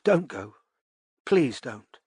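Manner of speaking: grab him before he hangs up; urgent begging; suddenly urgent. A narrator's reading. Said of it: "she said, suddenly urgent".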